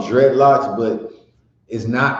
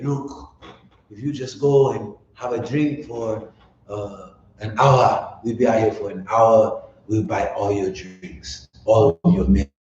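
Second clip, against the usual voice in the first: mock Elamite accent; 2 semitones lower than usual. Campers bribing the group to leave, badly faked foreign accent. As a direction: imitate the campers pleading in an accent he can't quite hold. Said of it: "I always sound like an African when I'm talking like that".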